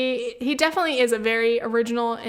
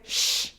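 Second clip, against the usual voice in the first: classic shush. Shown as a demonstration. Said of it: "pull the classic".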